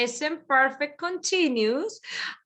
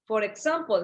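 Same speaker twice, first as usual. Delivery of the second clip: ordinary delivery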